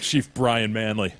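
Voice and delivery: slow, deliberate official voice; a hammed-up chief announcing himself; mock police chief voice. Cohost plays the chief, slow and official.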